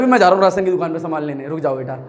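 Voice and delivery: put-on boastful boy. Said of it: "और लड़के बोलते हैं".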